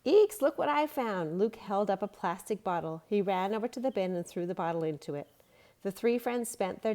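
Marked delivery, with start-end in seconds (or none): 0.0-1.4 much higher, louder eek; surprised. A narrator's reading. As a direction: sound startled by the find. Boy finds bottle.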